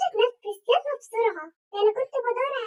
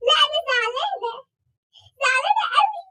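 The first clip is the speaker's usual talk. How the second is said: whiny sulk; 4 semitones higher, 5 dB louder than usual. Acted. Sulking daughter.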